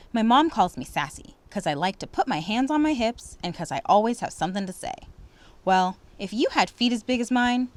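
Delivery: expressive read-aloud storytelling; story narration. Acted. Teacher reading a story to students, expressive narration. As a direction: read it warmly to the class.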